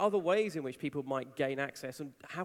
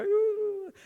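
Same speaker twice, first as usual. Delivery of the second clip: a much higher, louder little ooh; hammed-up shocked coo; mock startled ooh; 9 dB louder than usual. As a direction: squeal it like a startled, timid onlooker. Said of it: "And the InfoSec people go".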